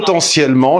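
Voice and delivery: POTENTIELLEMENT plus haut, appuyé; insistance sur POTENTIELLEMENT. Real, not acted. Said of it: "je dis bien potentiellement". (« potentiellement » bien souligné, plus aigu)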